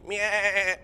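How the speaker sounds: high-pitched mock sheep bleating. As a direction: bleat like a sheep, second one long and stuttering. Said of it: "I'm not a sheep".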